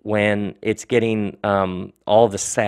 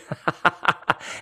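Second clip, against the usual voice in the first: airy laugh; 7 semitones higher, 4 dB quieter than usual. Real, not acted. Laughing at listeners' requests.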